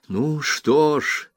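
high, slow, seething scorn at the mother; Rosa, bitter and scornful. A narrator's reading. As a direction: drawl it out with cold contempt. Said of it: "сказала она". (высокий, медленный, язвительный голос Розы)

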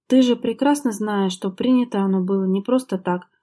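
a touch of heated reproach; heated exclamation. Acted. Wife snapping at husband, mildly heated. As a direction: press it out with mild exasperation. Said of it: "в сердцах воскликнула Лера".

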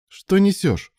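high, loud dismissive snort of a line; incredulous scoff. A narrator's reading. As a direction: brush it off with contempt. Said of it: "фыркнул Илья".

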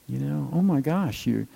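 usual speaking voice

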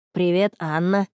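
put-on shy boy's hello; lightly voiced boy, a little timid; Марк. A narrator's reading. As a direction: greet her shyly. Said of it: "Марк застенчиво посмотрел на неё".

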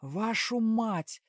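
loud, very slow drawn-out curse; a stretched, enraged shout; furious swearing yell. A narrator's reading. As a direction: let the curse burst out. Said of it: "заорал теперь он".

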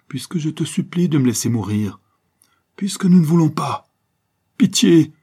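pleading whisper that breaks into a loud cry of pitié; desperate plea. Acted. The banker begging his jailer to let him die, whispered plea. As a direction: beg him in a hushed rush, then cry out. Favreau begs to be allowed death.

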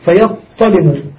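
فيظلم said fiyattalim, heavy doubled ta. Shown as a demonstration. Teacher showing students فيظلم with a doubled ta. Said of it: "بالطائين، بالطاء المشددة".

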